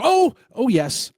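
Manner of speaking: slow, loud, delighted oh yes; excited. Real, not acted. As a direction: burst out in delight. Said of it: "I got excited".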